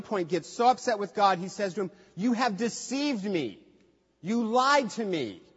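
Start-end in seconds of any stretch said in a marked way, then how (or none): 2.2-5.4 accusing God. Retold or imitated. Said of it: "It's strong language".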